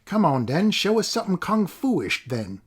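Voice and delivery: put-on goading the boy in a rough thug voice; rough stranger jeering at the boy; taunting yell. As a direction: egg him on mockingly. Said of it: "he yelled to a gathering crowd".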